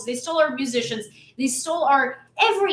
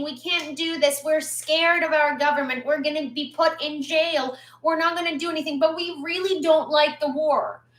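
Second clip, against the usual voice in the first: mock whiny complaint; 3 semitones higher than usual. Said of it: "they keep complaining and saying".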